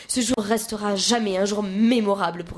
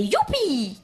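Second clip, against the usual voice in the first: cheering yell; 5 semitones higher than usual. Acted. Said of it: "a-t-on hurlé".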